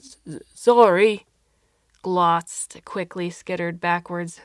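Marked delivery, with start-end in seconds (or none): 0.0-1.2 slow, loud stammering call; shouting. Acted. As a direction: drag out the name in a furious shout. Alberto calls after alien furiously.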